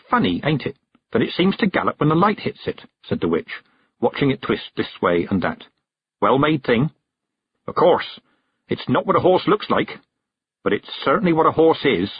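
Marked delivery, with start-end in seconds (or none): 0.1-2.8 lightly voiced old witch, higher pitched; a hint of a country witch, musing; old witch remarking, with lifted pitch. 6.2-12.1 lightly voiced old witch, appraising; a hint of a country witch, pitched up; old witch giving a considered verdict.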